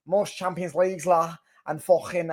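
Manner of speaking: retried Scouse fan impression; mock Scouse accent. Liverpool fan boasting of trophies, in a corrected mock Scouse accent. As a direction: put on a bad Scouse accent, ending on "la". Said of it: "that's a fucking Manc accent".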